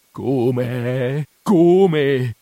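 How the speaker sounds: indignant, rising retort; a touch of disdain; almost scornful. A narrator's reading. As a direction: throw the question back scornfully. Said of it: "con voce quasi sdegnosa".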